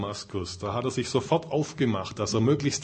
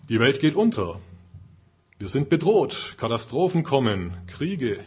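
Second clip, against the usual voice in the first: alarmed voice of the flesh; 2 semitones higher, 5 dB louder than usual. Acted. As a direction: warn of doom in mock panic. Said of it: "Die Stimme des Fleisches sagt vielleicht". (gespielt alarmiert, laut und aufgeregt)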